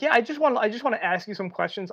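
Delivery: mild impression of an officer asking; imitated cop. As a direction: lightly put on a high cop voice. Voices the cop asking questions.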